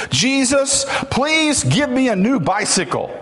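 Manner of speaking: high-pitched imitation of a boy yelling; mock yelled prayer. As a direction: call it out high, like a kid hollering a prayer. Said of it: "He began to yell his prayers at the top of his lungs".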